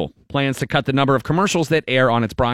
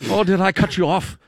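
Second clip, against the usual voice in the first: put-on Irish accent; 2 semitones higher than usual. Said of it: "that super interesting accent".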